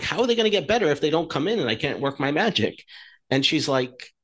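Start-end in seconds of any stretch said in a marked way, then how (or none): 0.0-2.8 quick, higher-pitched retelling of exasperation; retold frustration. Chiropractor retelling a complaint to the coach, mildly frustrated. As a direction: replay your frustrated protest, fast and raised. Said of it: "I was really frustrated".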